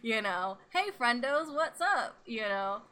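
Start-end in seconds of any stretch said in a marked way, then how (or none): 0.7-2.2 upbeat greeting. Shown as a demonstration. Demonstrates calling out to friends.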